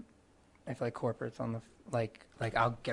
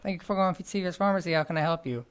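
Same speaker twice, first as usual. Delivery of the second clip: quick, higher pharmacy greeting; phone greeting; 4 semitones higher than usual. Retold or imitated. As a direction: rattle off a customer service greeting. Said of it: "because I have this awful voice".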